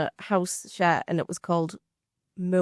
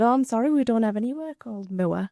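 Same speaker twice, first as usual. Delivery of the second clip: quick, higher voice of a puzzled phone operator; mock lady on phone; 5 semitones higher, faster than usual. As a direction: play the confused lady on the line, brisk. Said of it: "She said".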